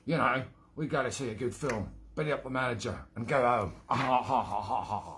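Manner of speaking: badly faked Cockney character voice; rubbish London accent. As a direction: tell the joke in a shaky attempt at London. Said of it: "That was a rubbish accent as well".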